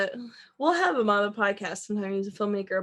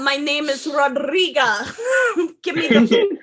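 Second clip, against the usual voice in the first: mock Boston accent; 4 semitones higher than usual. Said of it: "They just switched to Boston accents".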